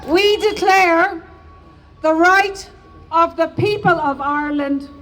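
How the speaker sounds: measured, solemn reading of a historic proclamation; formal proclamation reading. Shown as a demonstration. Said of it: "to now read the proclamation".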